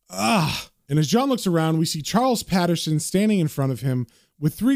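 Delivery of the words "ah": short acted "ah" on coming to; brief cry of a man jolted awake; waking cry. John hauled awake by his hair, short waking cry. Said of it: "makes John wake up saying".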